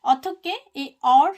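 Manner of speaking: অথক্ষে spelt out slowly and loud, double t held; slow pronunciation demo. Shown as a demonstration. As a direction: sound out অথক্ষে slowly for learners. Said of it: "অথক্ষে মানে হচ্ছে কিভাবে".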